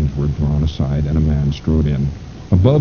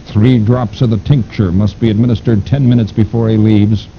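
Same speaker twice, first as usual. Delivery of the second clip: sinister mastermind voice; 5 semitones higher, 4 dB louder than usual. Acted. Fu Manchu gives orders.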